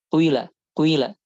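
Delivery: kuila with a brief u before i; ishmam demo. Shown as a demonstration. Teacher showing ishmam on qila. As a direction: start kuila with a short dhammah gliding to kasrah. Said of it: "porsi daripada harokat dhammahnya itu lebih sedikit".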